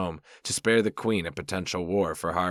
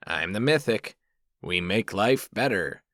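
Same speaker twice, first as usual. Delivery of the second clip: nerdy voice; 3 semitones higher than usual. Acted. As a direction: play it up like a proud nerd. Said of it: "I asked in my nerdiest voice".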